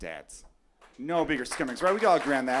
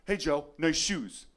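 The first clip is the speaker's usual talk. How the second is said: mocking kid voice; slower than usual. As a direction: taunt him slowly.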